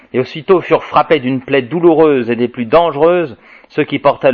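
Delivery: measured, ringing proclamation of prophecy; solemn scripture reading. Acted. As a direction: proclaim the apocalyptic text to the room. Reads Apocalypse aloud to audience.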